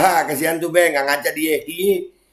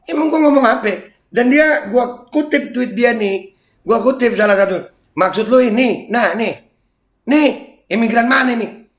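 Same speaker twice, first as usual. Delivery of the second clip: heated rant; 7 semitones higher than usual. Real, not acted. Heated rant quoting critic. (omelan panas, jauh lebih tinggi dan keras)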